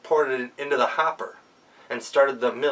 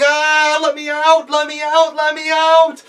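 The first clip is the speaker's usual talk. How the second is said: much higher, loud panicked scream; screaming goblin; 8 dB louder, slower than usual. Acted. Goblin trapped in the grindstones screams to be let out. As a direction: shriek to be freed. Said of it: "And began screaming".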